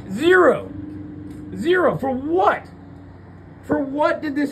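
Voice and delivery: slams the word down twice; exasperated shout. Real, not acted. Telling the viewers he has nothing left, shouting. Ranting about losing everything.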